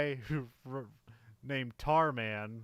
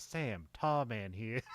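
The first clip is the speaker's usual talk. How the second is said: slow, understated Aussie drawl; Tarman's light Australian accent; subtle Australian accent; slower than usual. Retold or imitated. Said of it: "a bit more subtle Australian".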